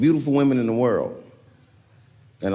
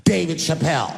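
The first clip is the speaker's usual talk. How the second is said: calling his name; 3 semitones higher than usual. Retold or imitated. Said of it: "I hear a voice go".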